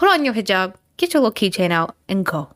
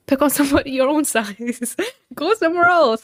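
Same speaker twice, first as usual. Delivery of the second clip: laughing mockery; 7 semitones higher than usual. Real, not acted. Mocking the man, laughing.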